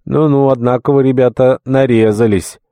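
cheerful. A narrator's reading. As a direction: greet tipsy friends with jolly surprise. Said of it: "весело проговорил". (весело, приподнятым голосом)

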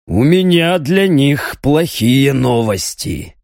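slow, near-growling demon threat; almost growl it. Acted. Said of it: "Ариман уже почти рычал".

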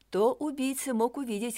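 plain reading voice

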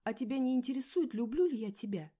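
high, loud tearful pleading; loud tearful outburst; choking on tears. A narrator's reading. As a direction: plead through rising tears. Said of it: "давилась я слезами".

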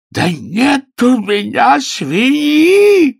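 very high, loud, slow anguished howl. A narrator's reading. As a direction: wail it in despair. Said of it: "взвыл сэр Грегори".

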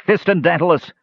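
high-pitched, desperate cry; screamed plea. A narrator's reading. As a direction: cry out to stop an enemy. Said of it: "screamed Tanis".

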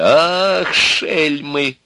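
high, loud, drawn-out exclamation; exclaiming. A narrator's reading. Old man laughs at the demons' trick, exclaiming. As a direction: burst out in delight. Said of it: "воскликнул он".

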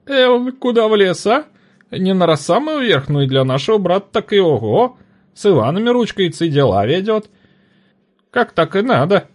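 a busybody spreading news; gossiping trader. A narrator's reading.

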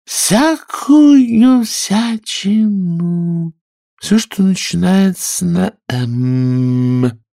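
high, very slow yawning squeak; nearly dozing off mid-word; sleepy Dormouse voice. Acted. Dormouse yawning through her tale, sleepy and slow. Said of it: "сонным голосом, зевая".

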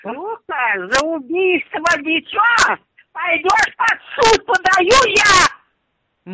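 slow, near tears; crying out the accusation; tearful. Real, not acted. Tearful court threat.

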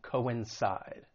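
"coincide" as co-in-SIDE; split-vowel pronunciation. Shown as a demonstration. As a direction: say "coincide" with co and in as separate syllables. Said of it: "two different syllables".

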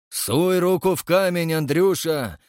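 high, emphatic, spiteful urging; brisk and spiteful. A narrator's reading. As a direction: egg him on with cheerful malice. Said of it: "бодро и зло сказал Егор Кузьмич". (бодро и зло, повысив голос)

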